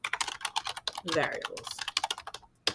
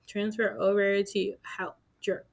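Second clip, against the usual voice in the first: slow, drawn-out silly voice; a goofy voice while doing the transfer; odd put-on voice; 4 dB quieter, slower than usual. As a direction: stretch it out in a goofy way. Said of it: "I don't know why I'm talking like that".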